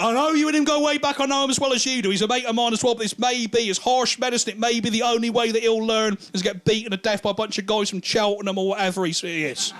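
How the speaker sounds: mock-wise friend declaring harsh medicine; hammed-up solemn speech. Pompous speech to Dave.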